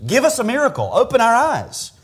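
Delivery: high-pitched, urgent begging; imitated plea. Blind men ask Jesus for sight, pleading high. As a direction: beg for a miracle, lightly acted. Voicing blind men's request.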